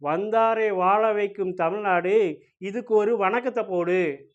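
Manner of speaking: slow, drawn-out hero punch dialogue; swaggering movie one liner. Pretend. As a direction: deliver it like a mass movie hero. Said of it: "சரி, அப்போ".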